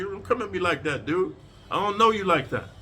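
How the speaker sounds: firm and steady, no anger; respectful but firm. Shown as a demonstration. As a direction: hold your ground calmly. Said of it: "I'm telling respectfully".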